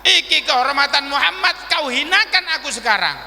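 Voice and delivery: acted solemn proclamation; solemn public challenge. Prophet invites redress before crowd.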